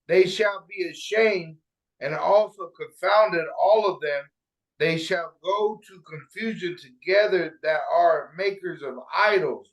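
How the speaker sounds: slow, measured scripture recitation; scripture reading. Acted. Reading Isaiah aloud to the group, slow scripture reading. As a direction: read it out slowly, weighing each phrase.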